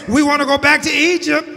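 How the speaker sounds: "We want to go back to Egypt" called out high and loud; preached loud demand. Retold or imitated. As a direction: shout the people's wish to turn back.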